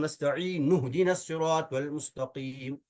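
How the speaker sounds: नस्तईन इहदीना linked as "nastainu-hdina"; joined reading. Shown as a demonstration. Teacher demonstrates bypassing the hamza, "nastainu-hdina" in one flow. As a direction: carry "nu" from नस्तईन straight into इहदीना, no initial "i". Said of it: "यूं पढ़ सकता हूँ".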